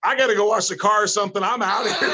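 high, fast, laughing bail-out; nervous excuse. Retold or imitated. Mocking himself fleeing the wrestling room, a fast laughing excuse. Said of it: "And I'm like".

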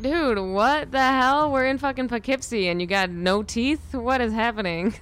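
high, loud disbelief; baffled outburst, stretching out the opening; exasperated and incredulous. Retold or imitated. Incredulous retelling about local Southern accents.

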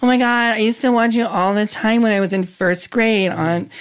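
mock kid's "oh my God" gush; gushing young fan. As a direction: mimic a starstruck fan gushing. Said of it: "like, when kids say to me".

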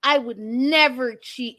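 slow, put-on innocent voice; a hint of a faking husband; mock denial. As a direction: play the smooth liar slowly. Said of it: "he's like".

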